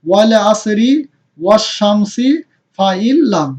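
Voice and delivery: "ওয়াল আসরি, ওয়াশ শামসি, ফা ইল্লাম" firmly, each phrase apart; model recitation. Shown as a demonstration. Teacher leads a repeat of three examples, measured model recitation of "ওয়াল আসরি, ওয়াশ শামসি, ফা ইল্লাম". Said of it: "আমরা আরেকবার বলি".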